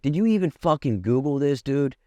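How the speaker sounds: high, exasperated retelling of a challenge; incredulous challenge. Retold or imitated. Patient challenging doctor's tweezer plan, exasperated. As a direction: pitch it up in disbelief.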